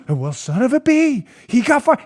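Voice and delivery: a smug, boastful mock Biden; bragging Biden. Host mocks Biden bragging on tape, smug. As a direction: brag like a proud politician. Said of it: "he goes".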